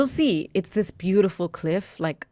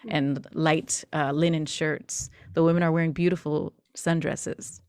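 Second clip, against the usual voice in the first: story narration. Acted. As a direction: paint the scene for the players. GM narrates scene setting.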